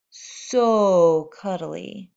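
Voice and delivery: slow, drawn-out cuddly coo; tender. Acted. Baby sifaka hugging her teddy bear, slow tender coo. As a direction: savour every word of it, slowly.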